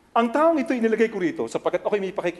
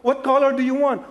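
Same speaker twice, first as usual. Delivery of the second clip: high, louder playful mom voice; lightly voiced mother; imitating a mom; 8 semitones higher, 5 dB louder than usual. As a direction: ask brightly like a mother to her kid. Mother asks child about colors.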